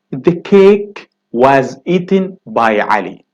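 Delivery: slowed, careful reading of the example; slow model sentence. Shown as a demonstration. Teacher reading the example sentence slowly to students. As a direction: read it slowly for the class. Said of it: "he said".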